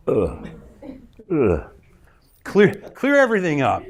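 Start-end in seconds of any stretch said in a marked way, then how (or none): 0.1-1.7 imitating the audience clearing their throats; soft throaty "uh, uh, uh". Audience members clearing throats, mock throat clearing. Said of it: "people in the audience go".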